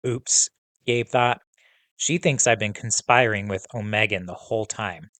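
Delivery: reading a novel aloud to the class; storytelling read-aloud with voiced dialogue; story narration. A narrator's reading. Teacher reading the confrontation scene to students, narration.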